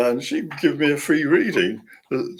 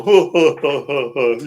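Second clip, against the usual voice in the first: louder scornful mock ha ha ha; mocking laugh; 6 dB louder than usual. A cheeky article mocking believers, mock laugh. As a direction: sneer it out like a smug columnist. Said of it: "it was all a very tongue-in-cheek article".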